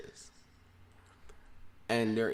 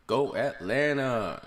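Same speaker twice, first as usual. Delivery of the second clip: loud, drawn-out hype call; slow, stretched cheer, raised in pitch; city shout-out; 4 semitones higher, 10 dB louder, slower than usual. Pretend. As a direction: holler it long to the crowd. Hump day city shout-outs.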